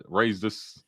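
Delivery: usual speaking voice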